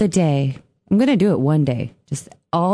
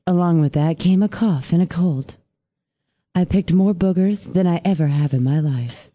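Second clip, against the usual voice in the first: sexy voice; 3 semitones lower than usual. Pretend. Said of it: "To read in your sexy voice".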